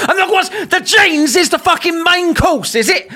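high-pitched mocking laugh through words; sarcastic giggle; laughing sarcasm. Real, not acted. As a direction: laugh at the absurdity.

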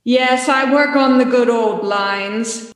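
slow, echoing ghostly reply; echoey ghost voice. Acted. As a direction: drawl it like a pleased ghost. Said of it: "put a little echoey effect so it sounds like a spooky ghost".

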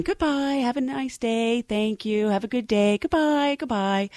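high, soft, sing-song goodbyes; routine flight attendant farewells. Retold or imitated. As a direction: chirp the goodbyes like at the boarding door. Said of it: "doing the normal flight attendant thing".

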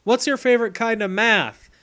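hammed-up friendly kid; mock cheerful Drew. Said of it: "and goes".

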